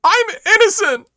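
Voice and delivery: loud, high, pleading gangster squeal; gruff underworld voice. Acted. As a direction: protest like a shifty crook. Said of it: "sounds like a gruff underworld sort".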